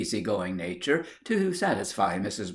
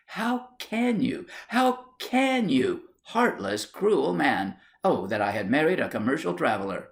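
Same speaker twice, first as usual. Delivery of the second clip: tearful; 5 semitones higher than usual. Acted. Wife wailing at heartless husband at table. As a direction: wail it through tears. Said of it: "she burst into tears".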